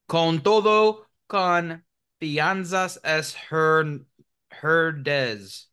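high, slow mock Spanish reading; Spanish accent. Reading Spanish label aloud.

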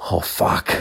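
an unvoiced groan of dread; whispered dread. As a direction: breathe it out in dread. Dread after she walks away.

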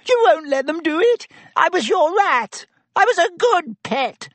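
high, whining, desperate rat-man; squeaky pleading Pettigrew. Acted. Pettigrew begging his old friend Sirius, high whining plea. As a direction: beg like a cornered coward, high and thin.

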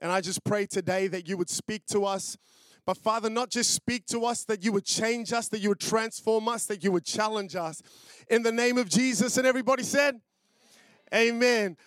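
earnest pastor's closing prayer, rising to the amen. Acted. Pastor closing prayer before the sermon, earnest prayer voice. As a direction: pray it to the Lord, then call out the amen.

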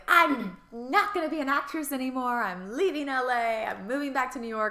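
quitting Hollywood in a put-on British accent. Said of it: "I was like".

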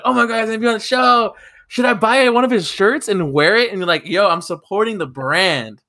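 high, fast excited gush; retold freakout. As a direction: gush like a starstruck fan.

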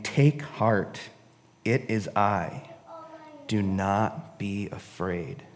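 quiet, measured comfort; calm reassurance. Acted. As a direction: reassure gently, taking your time. Reads Jesus calming the disciples.

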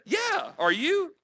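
high, slow mock holler; stretched, high-pitched imitation yell; retold yelling back. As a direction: call it back across the noise. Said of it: "I'm over there yelling at him".

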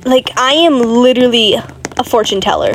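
excited yelling. Real, not acted. Celebrating an unexpected game win.

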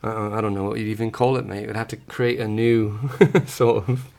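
put-on a light, casual British accent, asked for; playful put-on British accent. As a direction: answer the question in a lightly done British accent. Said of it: "in British?".

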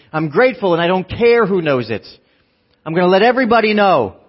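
loud, exuberant declaration, rising in pitch; Elf. Acted. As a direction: proclaim it to the whole room like a gleeful movie character. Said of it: "in the spirit of Elf".

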